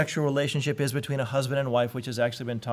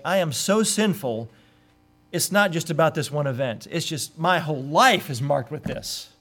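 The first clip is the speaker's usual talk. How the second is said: broken repentance; 3 dB louder than usual. Acted. Voicing repentant David.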